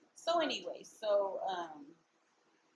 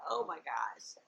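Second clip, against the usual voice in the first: laughing whisper; 5 semitones lower than usual. Real, not acted. Laughing at getting sidetracked.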